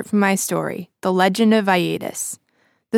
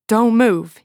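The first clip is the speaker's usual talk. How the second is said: louder, breathless and higher; panted threat; 4 semitones higher, 7 dB louder than usual. Acted. Ed, shaking, panting threat at the woman with dagger. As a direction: pant it out, knife shaking. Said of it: "he panted".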